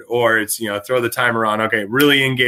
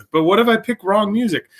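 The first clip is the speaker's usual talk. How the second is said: nervous student voice; 9 semitones higher than usual. Retold or imitated.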